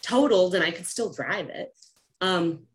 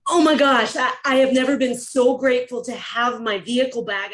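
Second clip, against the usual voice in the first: re-enacted gush of thankful relief, higher and louder; excited gratitude; 4 semitones higher, 4 dB louder than usual. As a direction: gush it like you just got it all back. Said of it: "I was a crying, giggling, excited".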